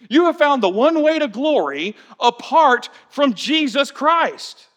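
mock congratulations, lifting in pitch; sarcastic. Paul mocking the proud Corinthian Christians, sarcastic praise. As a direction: sarcastically praise them, tongue in cheek. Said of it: "Paul literally sarcastically looks at them and says".

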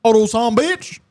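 high, raspy villain voice; hammed-up evil growl. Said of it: "Put the evil voice".

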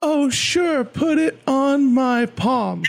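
very high, sing-song, measured rhythm; kids' show host explaining things in a high voice; DJ Lance Brock. Acted. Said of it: "I'm totally gonna do that".

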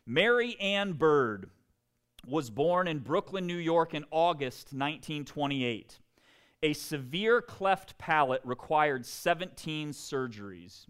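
deliberate, measured read-aloud; story reading. A narrator's reading. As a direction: read the story out to an audience with clear emphasis. Reads book story aloud.

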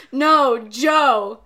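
imitated Australian correcting how his name is heard; Australian accent. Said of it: "said Joe in his Australian accent".

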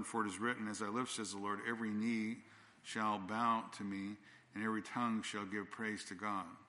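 preacher reading Romans aloud; scripture reading. Acted. Reads scripture slowly.

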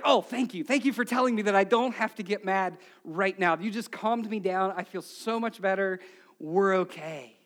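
mock grateful, settling down; sarcastic gratitude. Spouse told not to get mad, sarcastically grateful. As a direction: pretend the advice worked wonders.

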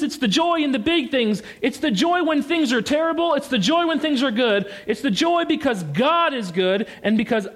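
high, ringing repetition of joy; preaching joy with rising excitement; joyful emphasis. Real, not acted. Preacher building on repeated joy.

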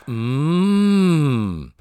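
low, buzzy hum of pleasure; low coffee growl. Shown as a demonstration. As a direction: growl the sip low and slow. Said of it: "this low growl".

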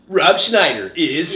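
slow, lightly voiced trailer announcer. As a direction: stretch it out like a comedy trailer narrator. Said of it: "that guy's voice".

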